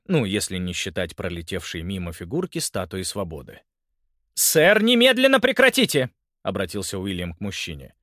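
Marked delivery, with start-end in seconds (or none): 4.3-6.1 высоко и громко, властно; обрывает драку; строгий приказ. A narrator's reading. Уильям приказывает мужчине. (полицейский громко приказывает мужчине прекратить)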